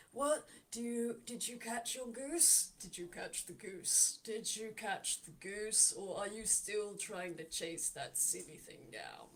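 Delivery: slow, teasing taunt; taunting barkeep. Acted. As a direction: rub it in slowly. Lao taunts about the goose.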